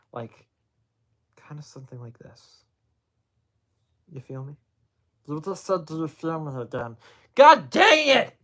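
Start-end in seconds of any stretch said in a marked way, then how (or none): 0.1-4.5 soft, relaxing, whispered ASMR voice. Explaining that asmr needs a good voice, then showing a relaxing asmr voice. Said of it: "make your voice sound really relaxing".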